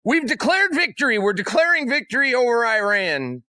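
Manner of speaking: hammed-up Trump declaring victory; mock Trump. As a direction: puff it up like a proud boast. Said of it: "And Trump goes".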